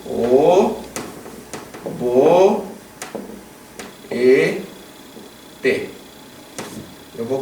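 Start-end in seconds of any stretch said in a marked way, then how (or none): 0.0-5.9 O bo e te split into slow separate syllables. Shown as a demonstration. Teacher breaking a verb into syllables for students. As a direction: spell out "O, bo, e, te" with long gaps. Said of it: "spelling out syllables".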